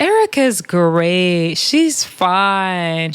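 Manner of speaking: drawn-out, ambiguous mock praise; slow imitation of a shady castmate; possibly shady praise. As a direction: imitate someone praising slowly, maybe throwing shade. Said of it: "you know the way Natalie talks, it's like she could be being shady".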